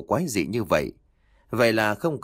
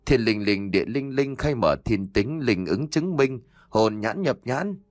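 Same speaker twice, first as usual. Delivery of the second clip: murmured incantation; 2 semitones higher than usual. A narrator's reading. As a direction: spell recited, slowing toward the end. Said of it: "Cô cứ lầm nhầm". (lầm rầm niệm chú)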